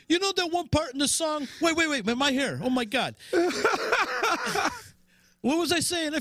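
squeaky high character voice, flustered; high-pitched Zia impression. Host doing a high squeaky Zia voice, flustered. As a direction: play the ditzy Zia, way up high. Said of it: "Zia's impression is spot on".

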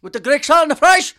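high, loud irritated shout; angry yell. Retold or imitated. Imitating the angry Greek place guy on the phone. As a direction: bark it at the caller. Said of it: "so angry that I called".

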